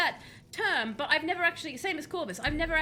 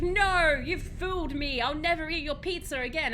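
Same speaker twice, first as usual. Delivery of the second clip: loud, higher dramatic "no", then easing; hammed-up cry of betrayal; mock outrage; 4 semitones higher, 4 dB louder than usual. Imitating a guest tricked into garlic pizza, mock outrage.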